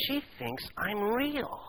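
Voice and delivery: put-on a boy amazed to be noticed; astonished elation. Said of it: "with astonished elation".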